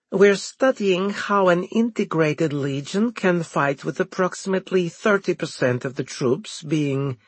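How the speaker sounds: high, official speech voice; formal commander address. Acted. Turov addressing troops.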